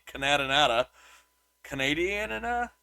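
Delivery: playful mispronunciation of "Canadanata, Canadianana"; deliberate butchering. Shown as a demonstration. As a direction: stumble over "Canadanata, Canadianana", mangling the word Canadian with extra syllables. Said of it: "I'm butchering these somewhat on purpose".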